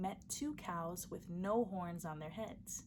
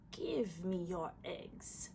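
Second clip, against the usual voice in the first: slow snake voice; 2 semitones lower, slower than usual. Acted. Snake eyeing the eggs, slow and menacing. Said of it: "said just like this".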